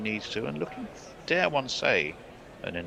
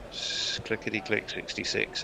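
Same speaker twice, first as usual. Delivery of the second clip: bingo caller; 5 dB quieter than usual. Shown as a demonstration. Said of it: "you've gotta go into bingo caller mode".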